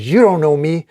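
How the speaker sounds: mild angry yell; understated villain's outburst; Doc Ock. Acted. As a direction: raise the voice in defiance, jumping up in pitch. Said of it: "As Doc Ock yells".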